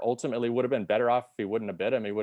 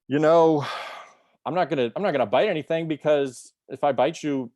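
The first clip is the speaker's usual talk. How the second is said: much higher and louder, rushing the reassurance; eager spider; 5 semitones higher, 4 dB louder than usual. Acted. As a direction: talk fast to win the turtle over. Spider pleading to cross river.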